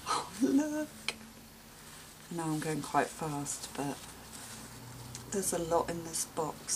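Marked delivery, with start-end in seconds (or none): 0.1-1.1 high-pitched cooing exclamation; delighted surprise. Real, not acted. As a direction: coo upward at a lovely find. Delighted at next napkin.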